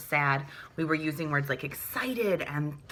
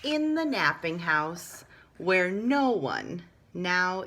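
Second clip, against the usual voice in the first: climax excitement; 3 semitones higher, slower than usual. A narrator's reading. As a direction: hit the big crash of the story.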